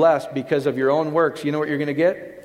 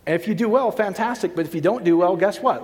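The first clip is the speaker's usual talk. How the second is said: gentle reassurance. Retold or imitated. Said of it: "here's what he's saying".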